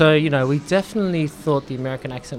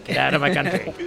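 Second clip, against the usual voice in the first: Australian accent. Shown as a demonstration. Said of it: "If you said it in Australian".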